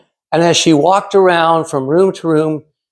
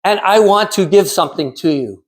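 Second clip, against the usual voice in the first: mother's Czech accent, lightly voiced; a touch of a Czech mother speaking English fondly; thick Czechoslovakian accent; 3 semitones higher than usual. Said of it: "in her thick Czechoslovakian accent".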